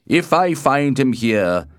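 loud warning climbing in pitch; stern threat. A narrator's reading. The Prince warns what awaits Romeo, loud and stern. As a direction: issue the threat as a ruler, loudly.

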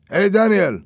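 loud high call across the room. A narrator's reading. Roberto calls loudly to the barman across the bar. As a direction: shout over to the barman.

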